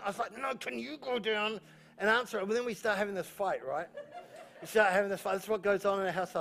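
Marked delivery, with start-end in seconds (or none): 0.4-2.5 retold bickering. Husband bouncing the chore back to Anita, retold bickering. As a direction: throw the request back, stretching it out. Recounting his retort in quarrel.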